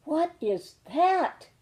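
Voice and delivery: high, slow, awed question; in wonder. Acted. Little cub sees the dancing lights, awed. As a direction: breathe it out amazed at the sky. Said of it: "asked in wonder".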